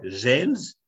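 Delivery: a Polish mother scolding her son; stern Polish mum. Retold or imitated. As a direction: warn him like an old-school mum. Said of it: "She's like".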